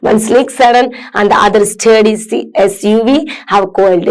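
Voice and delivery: slow, careful read-aloud for students; measured classroom reading. Acted. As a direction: read each word out slowly and clearly. Reads accident description.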